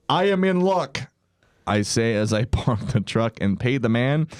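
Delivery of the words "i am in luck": excited exclamation. Acted. Acted quote in story.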